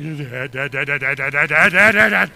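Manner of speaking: building from normal to loud repeated calls; panicked calling. Retold or imitated. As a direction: panic rising with every dad. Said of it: "He just went like".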